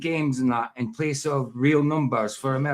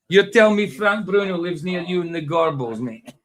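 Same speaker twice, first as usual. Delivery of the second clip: mock disbelief; 6 semitones higher, 5 dB louder than usual. Real, not acted.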